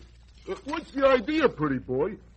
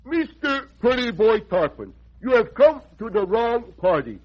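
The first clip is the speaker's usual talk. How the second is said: indignant. Acted. Indignant refusal of a bribe.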